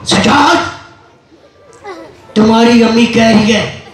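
dramatic punchy hero lines. Acted. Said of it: "action".

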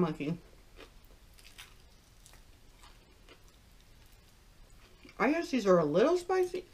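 muffled words between bites; talking while chewing. Real, not acted. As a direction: mouth partly full of food. Seen 0: Bites wing just before; mouth seems full early, then hand covers mouth.

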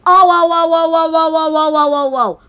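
very high, very loud whoas fading down; shocked whoas. Pretend. Parent finds the trapped people, shocked yelling. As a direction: yell whoa over and over in shock.

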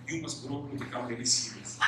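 a hint of a parent lecturing a child; mock stern parent. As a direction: parents telling a laughing child to grow serious, lightly mock stern. Parents scolding laughing child.

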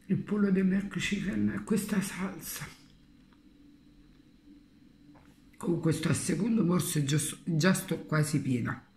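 chewing between words; talking with mouth full. Real, not acted. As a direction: hand over mouth chewing. Seen 2: cheek bulge and pursed chewing lips; hand covers full mouth.

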